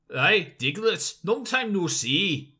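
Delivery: lightly voiced hero, a touch slow; a hint of a returning hero greeting an old friend; greeting Diglett after a long absence, lightly voiced and unhurried; Shell Shock's voice. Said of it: "get into Shell Shock's voice".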